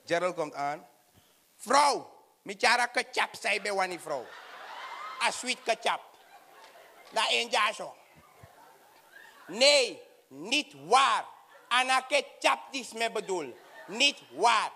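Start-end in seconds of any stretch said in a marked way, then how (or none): 1.6-7.9 voiced Gerald. 9.5-14.7 customs officer voice. Acted.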